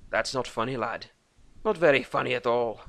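gruff Celtic dwarf voice; Irish-Scottish dwarf. A narrator's reading. Dwarf Thorgan answering Lucas, Scottish-Irish brogue. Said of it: "Irish, Scottish".

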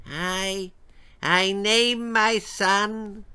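high, slow quavering declaration; declaring old king. A narrator's reading. King addressing the cathedral, declaring. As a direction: squint and proclaim haltingly. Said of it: "declared the king".

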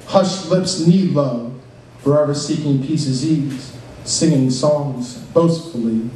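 slow, measured spoken-word reading; poem recitation. Acted. Poet reciting jailhouse piece to audience, slow spoken-word style. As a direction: recite slowly, savoring the alliteration.

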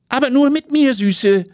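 hammed-up macho come-on; cocky show-off. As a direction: muscle guy muscling into the picture. Cocky friend barges into photo.

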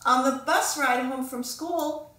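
ordinary delivery, nothing marked

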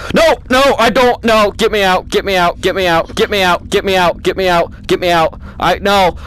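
loud frantic begging to get out; real panic, repeating it over and over; terrified player begging to escape; panicked pleading. Real, not acted. Panicking in VR horror game.

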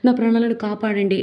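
retold shouting. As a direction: shout to the police as if attacked. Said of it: "గట్టిగా అరుస్తూ కేకలు వేస్తూ".

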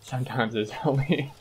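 talking through a laugh; amused, laughter slipping in; real laughing. Real, not acted. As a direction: confess it while breaking into giggles. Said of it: "I can be without laughing".

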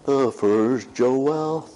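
slow, mock Mexican accent, Joel as Jo-wel; a light Mexican-accent take on the first Joel; playful Mexican accent. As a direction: tease it in a put-on Mexican accent. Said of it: "that's how they say it south of the border".

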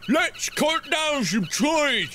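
hammed-up cockney-style shouts; overdone British clichés, last one shouted; mock British Jacksepticeye. Mocking Jacksepticeye with British phrases, hammed-up accent. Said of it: "Jacksepticeye ain't afraid".

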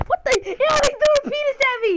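grossed out but cracking up; laughing disgust. Real, not acted. Grossed out in game.

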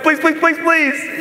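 high mock-desperate repeated plea; frantic begging. Acts a panicked player praying.

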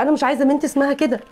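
heated insistence. Acted. Wife insists in the quarrel.

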